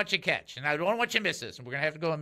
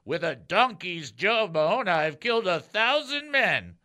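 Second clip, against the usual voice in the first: 1 dramatic Samson voice; 2 semitones higher, 5 dB louder, slower than usual. Acted. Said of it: "oh, sorry".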